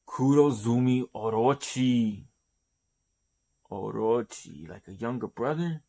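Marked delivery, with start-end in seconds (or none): 4.7-5.8 quick, disbelieving repeat of "like a younger brother"; incredulous echo. Shown as a demonstration. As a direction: throw it back as a puzzled question, faster.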